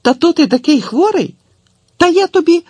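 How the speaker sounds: high, loud scolding woman; rising indignant scolding. A narrator's reading. Tetiana scolds the boy.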